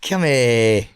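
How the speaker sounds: low coaxing call to a dog; lightly acted dog greeting. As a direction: call the dog over fondly. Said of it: "How would you introduce yourself to the dogs?".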